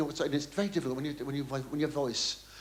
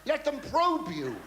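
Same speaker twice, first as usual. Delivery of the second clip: pompous, higher mock preaching; quoting the TV boss; 9 semitones higher than usual. Mimicking the TV boss urging him to be a friend of the people. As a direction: lay it on like a smug producer. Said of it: "he said".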